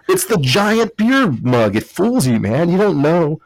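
excited. Real, not acted. Joking about the giant mug.

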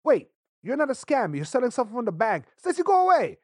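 high-pitched, pleading reproach; mock scolding. Imitating himself telling Stacy off on the phone, mock scolding. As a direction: shame the caller in hammed-up dismay.

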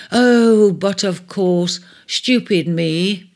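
a bright burst then a slow, happy self-scolding; happy exclaim. Acted. Pearl keeper exclaiming happily to his host. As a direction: glad he has the answer, exclaim it. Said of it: "he exclaimed happily".

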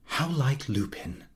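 wife answering her husband quietly, a hint of a woman's voice; Carrie's quiet reply. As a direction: say it simply, dropping the voice.

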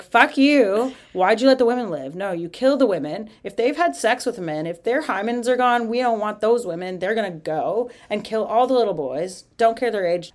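mildly mock-angry rant; retold anger. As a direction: play an irate commander, only half in earnest. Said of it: "So Moses is mad".

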